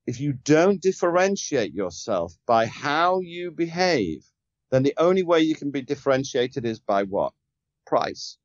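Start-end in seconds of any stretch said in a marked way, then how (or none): 0.1-4.2 slow, deliberate dictation pace; said slowly. Shown as a demonstration. Sales coach slowing down so listeners can note it, slow and deliberate. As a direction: spell it out slowly so they can write it down. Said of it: "I'll say this slowly for everybody to write this down".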